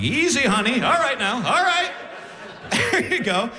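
high, rising strained pleading; calm her down while getting crushed; mock panicked soothing; nervous soothing. Being squeezed like prey.

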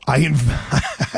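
cracking up mid-word; the laugh breaks through the quote. Real, not acted. Host retelling his friend's story, real laughter. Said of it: "I can't even say it with a straight face".

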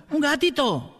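high yelled "¡Un gatito!" laughing; shouted cheer. Retold or imitated. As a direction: cry "¡Un gatito!" up at the stage. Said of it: "le gritaba".

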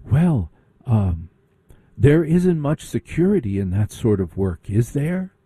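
condescend gently like a snob; snooty rich girl. Retold or imitated. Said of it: "and she said".

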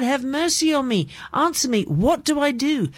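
lightly voiced cry for help; crying out to God. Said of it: "he's crying out to God".

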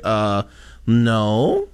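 hide behind a bashful fake voice; disguised voice. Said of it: "why I changed my voice".

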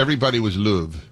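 Yorkshire "luv" with a rounded vowel; Yorkshire accent. Shown as a demonstration. Host confirming what everyone was called, Yorkshire accent. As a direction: lightly mimic Leeds speech in Yorkshire. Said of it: "able to mimic a Yorkshire accent".

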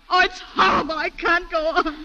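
high distressed wail, dragging on the last words; overcome, voice climbing in distress; breaking down. Acted. Woman unable to go on with her testimony, breaking down. Witness breaks down retelling the attack.

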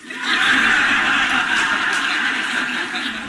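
silent breathy laugh, high up; a wheezing laugh at the story; real laughter. Real, not acted. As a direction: burst out laughing without voice. Laughing at the curse letter.

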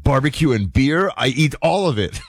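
lightly voiced happy visitor laughing; delighted tourist. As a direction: chuckle through a happy foodie's brag. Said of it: "I won't do his accent".

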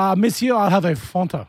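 lightly French-flavoured order, Fanta as "Fonta"; French accent. Acted. Ordering a Fanta on a date, French accent. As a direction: put on a suave French "monsieur". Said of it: "just order it like that".

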